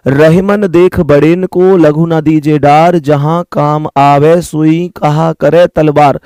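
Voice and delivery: slow, measured recitation of a doha; reciting a couplet. Acted. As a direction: recite the old verse slowly, like a proverb. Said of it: "कहते हैं ना".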